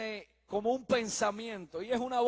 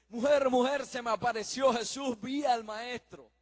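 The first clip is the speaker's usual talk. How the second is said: excited news; 4 semitones higher, 5 dB louder than usual. Acted. Missionary bursts out to his wife.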